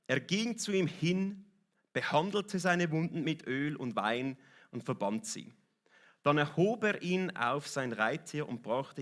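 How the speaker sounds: slow, deliberate Bible reading; scripture reading. Acted. Preacher reading the Good Samaritan passage, slow and measured. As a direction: read the story out in measured phrases.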